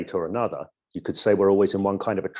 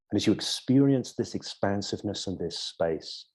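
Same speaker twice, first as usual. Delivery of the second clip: creepy hypnotist voice. Shown as a demonstration. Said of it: "you've certainly got the creepy hypnotist voice".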